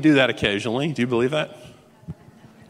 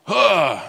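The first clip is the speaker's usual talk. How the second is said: acted weighty sigh; heavy sigh; 3 semitones higher than usual. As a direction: let out a big heavy "huh". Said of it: "it's heavy".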